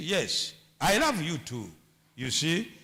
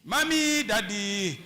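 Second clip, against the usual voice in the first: mock pet name. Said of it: "Don't call each other mommy".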